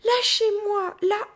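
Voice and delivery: high, loud insistent yell; screaming. A narrator's reading. Child fighting off the gorilla's hold, screaming. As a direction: scream the demand, struggling free. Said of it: "hurlai-je".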